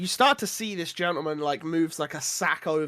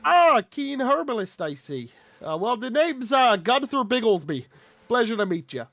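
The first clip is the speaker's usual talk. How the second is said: higher folksy shopkeeper voice; chummy old trader sizing her up; leering wheezy old man; 3 semitones higher than usual. Acted. GM holds Gunther's voice.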